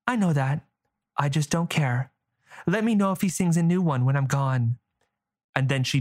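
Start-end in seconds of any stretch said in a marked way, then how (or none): 0.1-4.8 put-on girl bragging, fast; young girl voice. Girl character speaking.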